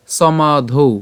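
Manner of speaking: "সমাধৌ" as so-maa-dhou with a u-glide ending; exceptional pronunciation. Shown as a demonstration. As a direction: end "সমাধৌ" on aspirated dhou. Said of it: "উচ্চারণটা কেমন করছি আমরা?". ("সমাধৌ" শেষে ধৌ, উ-এর মতো)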